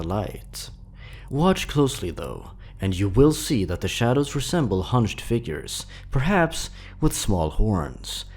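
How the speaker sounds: spooky story narration. A narrator's reading. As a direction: read it like a campfire horror tale, unhurried. Creepypasta read aloud.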